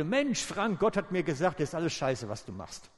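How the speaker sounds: put-on a young man loudly telling the pastor off; loud blunt rebuke. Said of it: "sagen würde". (lauter, derber Vorwurf eines jungen Mannes)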